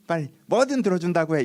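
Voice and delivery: 조르는 아이처럼 높은 목소리로 떼쓰기; 아빠에게 무조건 들어달라고 조르는 아이 흉내; 떼쓰는 아이. Retold or imitated. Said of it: "이렇게 시작하는 거예요". (아이처럼 떼쓰며 조르기)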